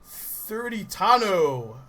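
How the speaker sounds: Tano drawn out slowly, falling at the end; slow careful pronunciation. Shown as a demonstration. Reading a hard name aloud, slow and careful. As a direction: sound out Tano slowly as a guess. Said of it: "one of my guesses".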